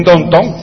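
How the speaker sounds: downtown said as "don-ton", as a question; Nuyorican pronunciation. Shown as a demonstration. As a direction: ask it with downtown flattened to "donton". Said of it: "¿Qué es un downtown?".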